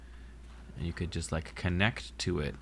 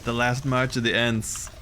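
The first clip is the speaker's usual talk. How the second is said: excited; 4 semitones higher than usual. Real, not acted. Surprise at hostile trees.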